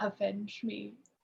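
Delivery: barely-there, hushed, very quiet, high half-whisper. Playing a character kissing another's cheek for good luck, half-whispering. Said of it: "he whispers".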